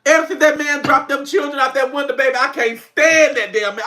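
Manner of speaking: normal talking voice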